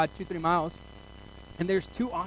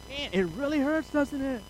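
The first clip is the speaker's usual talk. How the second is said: mock sympathy; 8 semitones higher than usual. Mock pity to injured friend.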